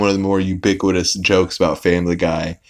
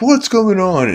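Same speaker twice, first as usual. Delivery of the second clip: imitating the principal; 13 semitones higher, 3 dB louder than usual. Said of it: "He's like".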